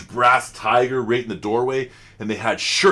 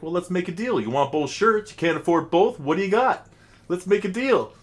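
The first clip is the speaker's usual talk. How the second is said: higher-pitched imitated Indian haggler; Indian shopkeeper; 7 semitones higher, 3 dB louder than usual. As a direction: haggle with a put-on Indian accent. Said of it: "In his deep Indian voice".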